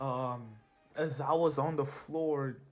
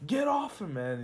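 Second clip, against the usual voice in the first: higher, louder heroic shout; 4 semitones higher, 5 dB louder than usual. Acted. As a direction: yell at the villain to back off. Hero defending his teacher.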